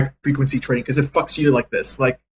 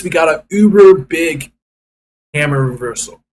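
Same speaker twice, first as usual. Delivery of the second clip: excited shout; 4 dB louder than usual. Real, not acted. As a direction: shout it out as the chart turns. Excited by a chart reversal.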